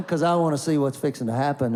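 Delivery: quick words through a stifled laugh; tickled laugh. Real, not acted. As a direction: barely hold back a chuckle at what's coming. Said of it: "getting pretty tickled".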